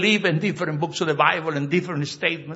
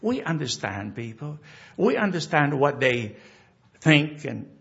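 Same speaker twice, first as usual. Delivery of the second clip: closing prayer; 3 semitones lower than usual. Real, not acted. Pastor leading the congregation in closing prayer, hushed and reverent.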